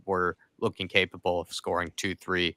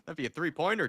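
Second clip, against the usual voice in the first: laughing; 9 semitones higher, 5 dB quieter than usual. Real, not acted. Laughing at the long-range shot.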